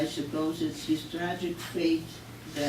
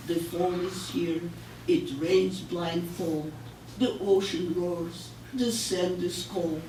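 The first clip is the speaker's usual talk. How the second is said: poetry reading; 3 semitones higher than usual. Acted. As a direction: read the lonely dog's lines plainly and gently. Recites dog's poem.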